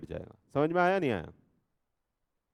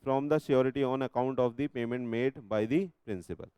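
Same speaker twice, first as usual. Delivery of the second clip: slow, measured reading of the act; slow legal text reading; much slower than usual. Shown as a demonstration. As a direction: read each clause out deliberately. Reads section aloud slowly. (धीमी आवाज़ में धारा पढ़ना)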